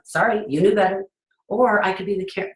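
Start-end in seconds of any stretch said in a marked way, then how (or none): 0.0-1.0 cold know-better scolding; attitude parent. Retold or imitated. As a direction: brush the kid off with a smug sorry. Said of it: "the attitude parent going".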